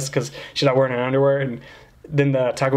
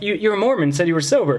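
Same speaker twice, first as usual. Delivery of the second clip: higher-pitched retold protest; incredulous; 5 semitones higher than usual. Confronting the Mormon friend who drank, incredulous. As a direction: call out a friend in disbelief.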